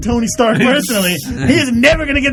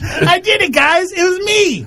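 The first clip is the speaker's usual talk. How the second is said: higher, half-laughing plea for credit; needy Hank Pym; 10 semitones higher, much slower than usual. Retold or imitated. Mocking Hank Pym begging for acknowledgment, higher needy voice. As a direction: beg the room to notice you, lightly voiced.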